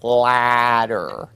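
Ladder, a wide ah pushed out with effort; straining at the ah. Retold or imitated. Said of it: "they're like".

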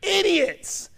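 high, sneering taunt at fools; mock them like Paul would; lightly voiced apostle scolding fools. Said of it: "He's saying".

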